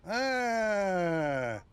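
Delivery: long doubtful "aah", sliding down; drawn-out ah. Real, not acted. Viewer's drink idea sounds off, uneasy drawn-out ah. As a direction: draw out an uneasy groan.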